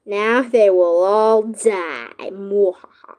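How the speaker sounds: slow, loud mock villain threat; booming echoing villain monologue. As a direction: ham it up like a movie villain. Playing villain in game.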